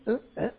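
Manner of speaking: short wordless grunts; imitated grunts. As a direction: grunt in place of answering. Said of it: "There's nothing but grunts".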